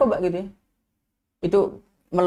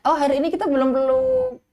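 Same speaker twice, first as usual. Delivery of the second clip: gentle parent reminder; 7 semitones higher than usual. Shown as a demonstration. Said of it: "Bahkan perlu kita".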